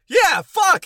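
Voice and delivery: high-pitched excited encouragement; hyped-up coach cheer; egging on. Retold or imitated. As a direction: urge the kid on, voice way up. Egging the kid on to repeat.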